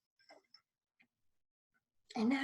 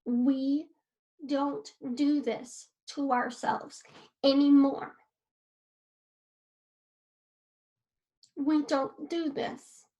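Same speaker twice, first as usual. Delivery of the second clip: self-talk; 3 dB louder, slower than usual. Shown as a demonstration. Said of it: "you're gonna tell yourself".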